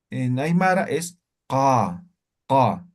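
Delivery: "ka" from deep in the throat, slowly; postvelar ka. Shown as a demonstration. Teacher shows the Aymara postvelar ka, slowly. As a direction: push "ka" from far back in the throat. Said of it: "estamos pronunciando en lo que es el postvelar".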